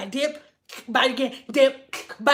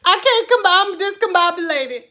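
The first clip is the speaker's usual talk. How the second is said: laughing through the words, a little higher; laughing flustered; 3 semitones higher, 4 dB louder than usual. Real, not acted. Flustered streamer laughs at surprise donations, giggling through it. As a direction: giggle it out, thrown off balance. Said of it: "I laugh uncontrollably".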